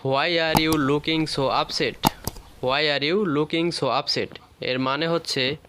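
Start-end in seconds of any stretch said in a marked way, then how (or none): 0.0-2.1 slow, rising on "are"; slow rising model. Shown as a demonstration. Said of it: "বলতে পারি". 2.6-4.4 slow, falling on "you"; slow falling model. Shown as a demonstration. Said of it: "বলতে পারি".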